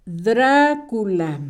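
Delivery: "Drácula" muy lento, DRA largo y marcado; acento en la primera A. Shown as a demonstration. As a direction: separa DRA y apóyate en esa A. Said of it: "Dra con acento en la primera A". ("Drácula" dictado despacio, acento inicial)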